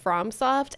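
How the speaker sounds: FromSoft with "from" as "frahm"; own pronunciation. Shown as a demonstration. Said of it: "where it's pronounced".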